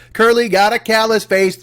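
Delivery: put-on slow sing-song kid taunt; schoolyard taunt. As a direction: tease it like a playground chant. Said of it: "yell that at somebody".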